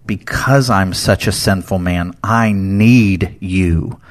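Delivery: drawn out, very slow "I need you"; sincere plea. Retold or imitated. Host voicing Peter turning to Jesus, slow sincere plea. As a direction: let "I need you" land slowly and tenderly.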